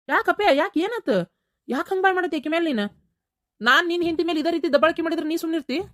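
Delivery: put-on an old mother reproaching her boy; mother scolding son.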